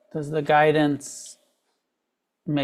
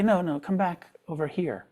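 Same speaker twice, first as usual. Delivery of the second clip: softer, coaxing call to a puppy; gentle to a puppy; 3 semitones higher, 4 dB quieter than usual. Retold or imitated. Teacher showing how to call a straying puppy, softly coaxing. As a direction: lightly coax the puppy back. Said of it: "You gently say".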